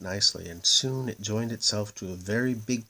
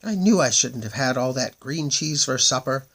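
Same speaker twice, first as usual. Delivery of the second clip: moon voice; 4 semitones higher, 6 dB louder than usual. A narrator's reading. Moon stuck in the door.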